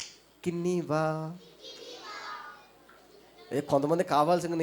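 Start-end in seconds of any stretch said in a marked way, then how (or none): 0.1-1.3 ఇకినీవా said slowly, each syllable clear; slow careful model. Shown as a demonstration. Teacher models ఇకినీవా slowly so kids stop saying idli. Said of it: "బాగా చెప్పండి".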